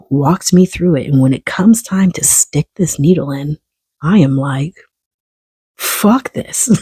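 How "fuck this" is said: high, breathless fuck this; whispered refusal. Retold or imitated. Balking at the needle on FaceTime, high whispered refusal. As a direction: hiss the refusal under your breath.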